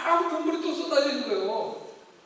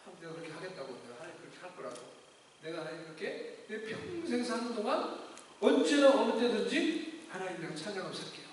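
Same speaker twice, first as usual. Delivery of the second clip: tearful vow; 4 semitones lower, 5 dB quieter than usual. Retold or imitated. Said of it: "눈물이 막 쏟아지면서".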